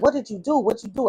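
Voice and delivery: high-pitched imitation of mom; questioning mother. Mother questioning her daughter, retold.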